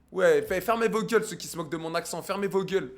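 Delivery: loud, forceful shut-up; annoyed telling-off. Real, not acted. Streamer to viewers mocking his accent, loud annoyed telling-off.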